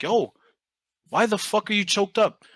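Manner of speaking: mock disbelief at crying players; surprised yo. Coach retelling players crying.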